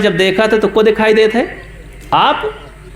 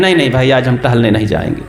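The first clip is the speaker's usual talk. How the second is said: low, fast, grumpy brush-off; sulky refusal; 8 semitones lower, much faster than usual. Acted. Unhappy man turns down his friends' invitation, low and fast. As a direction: wave the friends away, irritable.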